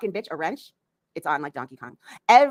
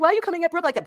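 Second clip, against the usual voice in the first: mock whiny question; 11 semitones higher, 4 dB louder, faster than usual. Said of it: "people are gonna be like".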